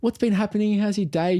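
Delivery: high, welcoming small talk; friendly. Retold or imitated. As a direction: imitate someone being really nice. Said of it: "Treating me so nice".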